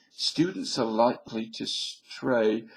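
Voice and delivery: "students are likely to stray" read slowly and weightily; mock solemn warning; slow read-out quote. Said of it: "The article said something like".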